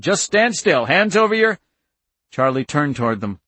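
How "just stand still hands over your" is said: loud, high barked command; yelled orders. A narrator's reading. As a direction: keep yelling orders, pitched way up. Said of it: "one of them yelled".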